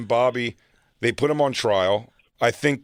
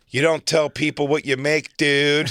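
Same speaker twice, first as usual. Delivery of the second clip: higher-pitched imitation of an annoyed friend; mock scolding; 4 semitones higher, 3 dB louder than usual. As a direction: tell him off down the phone. Retold scolding phone call from friend.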